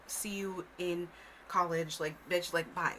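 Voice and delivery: slow and offhand dismissal; mock dad brushing off his daughter; imitating dad leaving. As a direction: brush her off slowly. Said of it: "he was like".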